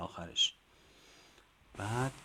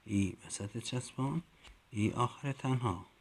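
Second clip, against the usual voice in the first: teacher recital; 3 semitones higher, 4 dB louder than usual. Shown as a demonstration. Teacher chanting letter forms to first graders. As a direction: recite each form for the class to echo.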